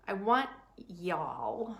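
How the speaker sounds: slow, drawn-out Wisconsin vowels for a laugh; jokey Wisconsin accent on "I want y'all"; mock Wisconsin accent. Shown as a demonstration. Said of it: "that's my Wisconsin accent trying to be funny".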